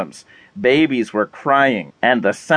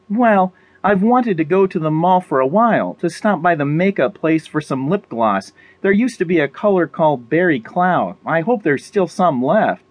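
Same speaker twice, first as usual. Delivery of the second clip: a little higher, wishful chat; slightly lifted character voice, hopeful; lightly voiced Molly; 4 semitones higher than usual. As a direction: lightly play a woman hoping for a small treat.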